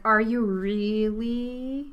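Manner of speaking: slow, drawn-out disbelieving question; shocked question. Shown as a demonstration. Student asking if Yusuf is really him, amazed. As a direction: stretch it out like you can't believe it. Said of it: "with a lot of emphasis".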